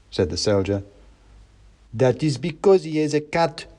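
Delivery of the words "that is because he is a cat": high-voiced pedantic mouse; mouse revolutionary. A narrator's reading. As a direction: explain it in a high character voice. Revolutionary mouse explains to soldier.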